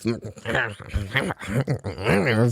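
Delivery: wordless imitated muttering; grumbling talk. Old lady complaining to her therapist, mimicked grumbling. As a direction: mimic angry muttering without words. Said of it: "pointing at me and talking".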